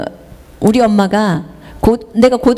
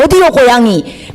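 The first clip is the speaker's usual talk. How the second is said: put-on a light Jeolla accent, repeating the question; mild imitation of a Jeolla elder asking again; 전라도 말투로 다시 묻듯이; Jeolla dialect. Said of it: "딱 그 전라도 말로 딱 하는 거예요".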